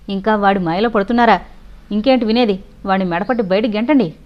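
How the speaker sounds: wife insisting he throw the servant out, angry. Acted. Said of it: "అంది భారతి కోపంగా".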